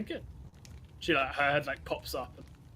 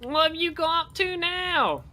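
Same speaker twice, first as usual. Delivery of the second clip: much higher, louder fuss; exasperated companion; 5 semitones higher, 7 dB louder than usual. Acted. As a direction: sigh at his latest mess.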